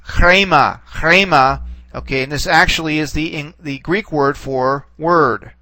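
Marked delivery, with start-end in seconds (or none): 0.0-1.6 chrema with a rough, breathed onset to the r; demonstrated pronunciation. Shown as a demonstration. Teacher modelling a Greek word with initial rho, rough-breathed chrema. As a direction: say "chrema" as a model word, twice, each falling. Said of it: "the word is actually pronounced".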